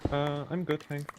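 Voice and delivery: slight lisp on the S sounds; soft lisped S, mild and real. Real, not acted. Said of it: "sorry for the lisp".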